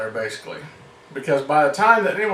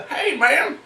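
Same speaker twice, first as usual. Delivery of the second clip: a higher, chuckling "Hey man"; cheery greeting; 7 semitones higher than usual. Shown as a demonstration. Comedian greeting the party guest with a higher, laughing "Hey man". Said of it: "So I did the".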